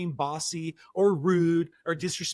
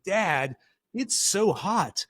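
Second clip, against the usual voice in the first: put-on wheedling kid. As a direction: lightly imitate a daughter angling for treats. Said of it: "she came up to me and said".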